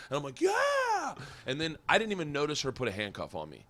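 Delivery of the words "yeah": very high, held mock whoop; re-enacted excited yell; imitated answering cheer. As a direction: whoop back at the cheering crowd. His own answering cheer, retold.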